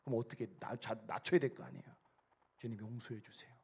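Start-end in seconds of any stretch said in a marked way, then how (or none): 2.6-3.5 soft, lower prayer voice; humble plea. Shown as a demonstration. Believer asking the Lord for forgiveness, humble and quiet.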